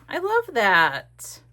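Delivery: bright slow gush. Real, not acted. Admiring her page with a slow gush. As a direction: stretch out the love.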